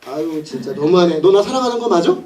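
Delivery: mildly acted pout; sulky. Woman to Samson after his trick, lightly sulky. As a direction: play a hurt, sulking lover. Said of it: "삐졌어요, 이 여자가".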